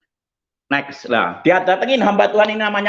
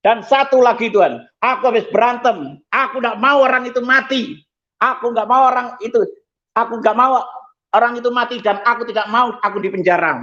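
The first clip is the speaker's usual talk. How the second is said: higher, insistent pleading; retold cry to God; 4 semitones higher than usual. Man confessing a fight to God, retold crying out. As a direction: keep pressing the plea, moderately raised. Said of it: "saya teriak".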